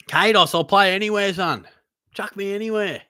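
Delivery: playful excited appeal; eager plea. Real, not acted. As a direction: beg for a spot, half joking. Pleading for a game.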